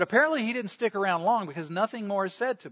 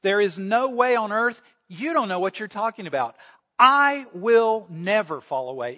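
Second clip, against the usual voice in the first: insistent protest; 3 semitones higher, 5 dB louder than usual. Acted. Peter protesting to Jesus.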